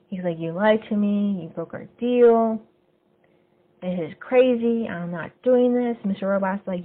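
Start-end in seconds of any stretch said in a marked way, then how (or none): 0.4-6.0 higher, slower mock protest; retold argument. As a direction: push back at him, half-acted. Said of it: "Elliot's arguing back with him".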